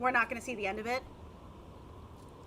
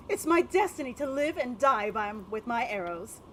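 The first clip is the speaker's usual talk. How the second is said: dandy voice. Acted. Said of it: "I gave him a dandy voice".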